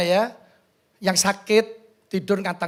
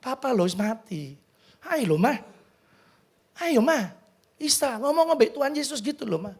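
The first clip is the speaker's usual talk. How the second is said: soft, pleading with mother; understated imploring murmur, voiced; retold tearful whisper; 2 semitones higher, 5 dB quieter than usual. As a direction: imitate a hushed, tearful plea. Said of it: "Saya nangis ya, saya bisik".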